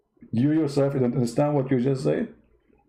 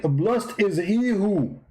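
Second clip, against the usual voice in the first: slow reading; 2 semitones higher, much slower than usual. Acted. Mock-reading a verse slowly.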